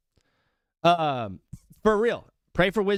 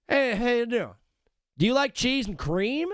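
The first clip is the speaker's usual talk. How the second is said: higher, hammed-up ad pitch, lightly voiced; mock commercial voice; 5 semitones higher than usual. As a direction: spoof a folksy TV ad. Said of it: "Every time I see a Cracker Barrel commercial".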